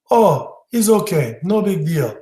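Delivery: hint of a Russian accent, shrugging it off; thick Russian accent. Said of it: "thick Russian accent".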